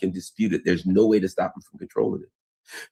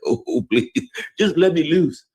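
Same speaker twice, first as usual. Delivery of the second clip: high, pleading cry to be unleashed; begging to be let loose; 10 semitones higher than usual. Retold or imitated. Yemen begging Iran to let it loose, high and pleading. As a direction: strain at the leash like an eager dog, pitched up high. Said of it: "the Yemen's like".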